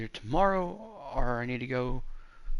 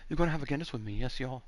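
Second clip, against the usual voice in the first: lightly put-on Irish accent; 4 semitones higher, 3 dB quieter, much faster than usual. Shown as a demonstration. Man insisting on a shared Guinness, mild Irish accent. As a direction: keep up the mock Irish patter. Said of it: "Irish is".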